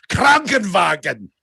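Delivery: loud, high, in-your-face German shout; German accent. Acted. Punchline of a video meme about languages, shouted harsh German. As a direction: bellow it like the German guy in a meme. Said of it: "the German guy says".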